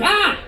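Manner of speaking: short high yelp; a sudden startled cry, acted out; mock yelp. Kicked awake by a sleeping date, mock yelp.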